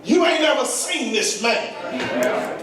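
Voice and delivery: driving, rhythmic preacher's build; impassioned preaching. Real, not acted. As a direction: press on phrase after phrase with rising fervour.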